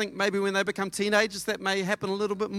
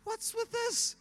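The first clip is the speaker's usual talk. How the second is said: high, soft mock indignation; incredulous dad; 7 semitones higher, 5 dB quieter than usual. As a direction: act out a baffled dad questioning his son. Acted dad confronting son over money.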